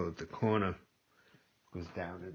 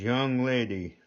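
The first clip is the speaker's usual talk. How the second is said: higher, louder, drawn-out Southern drawl; imitated Southern drawl; 4 semitones higher, 5 dB louder, slower than usual. Older Southern man at dinner addressing a fast-talking girl, Southern drawl. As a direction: stretch "Young lady" out in a slow Southern drawl. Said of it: "he had a real strong Southern drawl".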